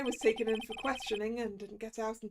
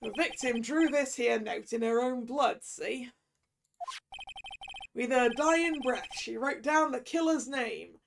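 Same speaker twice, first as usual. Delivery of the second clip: noir detective; 3 dB louder than usual. Acted. Detective explains his theory.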